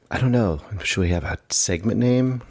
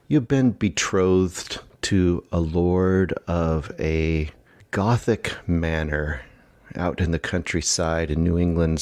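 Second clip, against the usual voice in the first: gothic story narration. Acted.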